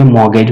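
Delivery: "मॉर्गेज" pronounced without any t sound; silent T. Shown as a demonstration. Teacher repeating the word after pronunciation note, "मॉर्गेज" with silent t. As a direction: say "मॉर्गेज" as MOR-gej, t left out. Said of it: "इसको pronunciation पे भी ध्यान देंगे".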